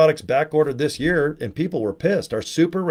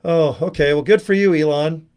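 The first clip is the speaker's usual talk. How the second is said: sarcastic brush-off; 2 semitones higher, 4 dB louder than usual. Retold or imitated. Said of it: "People are like".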